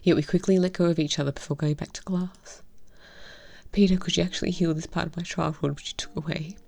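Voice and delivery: tender, hushed story reading; story narration. Acted. Reading visual novel aloud.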